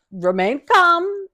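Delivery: high, slowly stretched reassurance; measured caution. Retold or imitated. Daughter shows mom the bag, slow measured caution. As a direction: draw it out high and slow to head off panic. Repeats warning to panicky mom.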